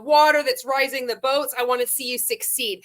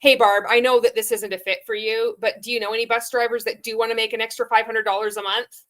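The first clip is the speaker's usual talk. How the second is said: mock recruiter message; faster than usual. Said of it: "say I knew Barb was a bus driver".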